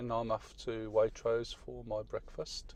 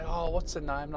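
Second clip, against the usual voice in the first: imitating dog walker; 7 semitones higher, 3 dB louder than usual. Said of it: "And they'll say".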